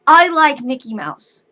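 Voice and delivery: put-on little girl. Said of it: "she goes".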